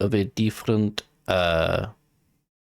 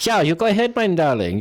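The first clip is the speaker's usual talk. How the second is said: sweet NPC voice; 6 semitones higher, 3 dB louder than usual. Acted.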